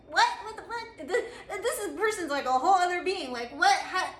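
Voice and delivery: high, laughing what the fuck; laughing disbelief. Retold or imitated. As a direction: act baffled while cracking up. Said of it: "they're just like".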